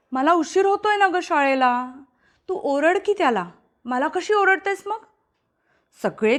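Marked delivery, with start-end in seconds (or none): 0.1-5.0 complaining sister. Acted.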